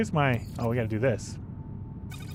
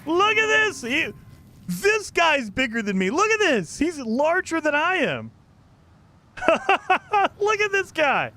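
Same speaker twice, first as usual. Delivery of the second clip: excited; 10 semitones higher than usual. Real, not acted. Amazed by a huge creature.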